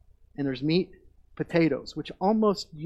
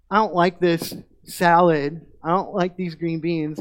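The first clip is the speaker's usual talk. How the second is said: put-on complaining kid; 6 dB louder than usual. Kids complaining at supper.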